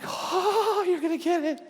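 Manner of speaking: a first taunting warning to the ice thrower; mock threat. Pastor threatening unseen ice thrower, mild mock menace. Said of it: "And I'm like".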